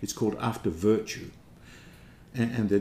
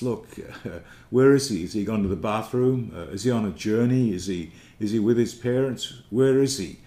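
louder, jeering taunt with a laugh; mocking laughter; 4 dB louder than usual. Crowd jeering at the madman, mock laughing taunt. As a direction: laugh at him as you taunt, retold. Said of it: "the crowd just start to laugh to him".

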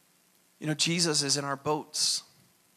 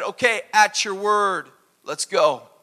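eager obedience; 5 semitones higher, 5 dB louder than usual. Retold or imitated. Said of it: "He said".

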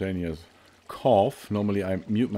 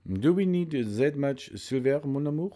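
put-on French accent; 4 semitones higher than usual. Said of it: "speak English with a French accent".

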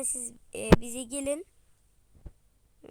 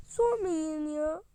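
tearful; 3 semitones higher than usual. Acted. Daughter upset.

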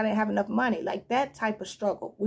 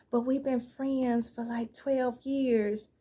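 whiny friend; much slower than usual. Retold or imitated. Mocking a guilt-tripping friend.

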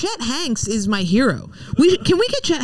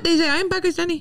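higher, lightly put-on Pakistani accent; mock Pakistani accent; 5 semitones higher, faster than usual. Imitating how they say it, mock Pakistani accent. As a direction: try a joking Pakistani accent. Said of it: "Pakistani accent".

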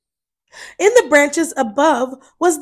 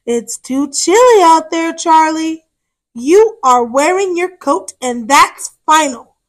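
protective mother; 2 semitones higher, 3 dB louder than usual. Acted. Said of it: "said a very protective Mama Armadillo".

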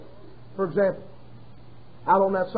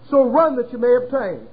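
scripture reading; 3 dB louder than usual. Acted. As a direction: read the verse like holy writ. Reads scripture aloud.

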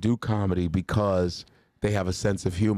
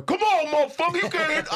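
much higher, taunting jeer; heckling boxers. Retold or imitated. Boxers heckling the comedian, much higher jeering voice. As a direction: jeer at the rookie from the side. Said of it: "Those dudes are going".

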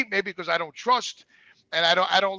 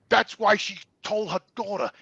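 ordinary talk, nothing marked

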